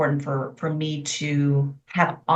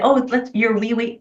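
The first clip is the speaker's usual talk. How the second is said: put-on cooing baby talk, pitched higher; mock baby talk; 6 semitones higher than usual. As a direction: mimic how adults coo at a toddler. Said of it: "in their baby talk".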